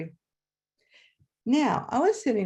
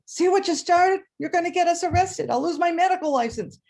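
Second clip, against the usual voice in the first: louder, higher panicked scolding; upset friend; 9 semitones higher, 4 dB louder than usual. Retold or imitated. Friend next to her panics about arrest, higher and louder. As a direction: fret at her like the worried friend beside her.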